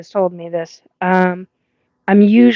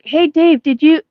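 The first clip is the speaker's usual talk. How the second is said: calling out; 7 semitones higher, 3 dB louder than usual. Retold or imitated. Calling to friend beside him.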